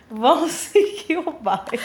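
laughing while talking; fighting back the giggles; stifled giggles. Real, not acted. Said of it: "Eu não tô conseguindo parar de rir".

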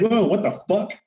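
high retold gasp of shock. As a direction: recreate the jolt of hearing the quote. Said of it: "And I was like".

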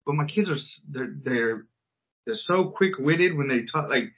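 normal talking voice

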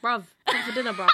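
laughing mock-Southern dinner call; extra Southern English accent. Shown as a demonstration. Calling children out for dinner, extra Southern accent. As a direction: ham up a London accent through a laugh. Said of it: "if you're being extra Southern".

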